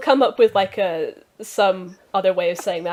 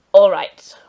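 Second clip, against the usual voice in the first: loud greeting; 13 dB louder than usual. Acted. Stable master addresses customers.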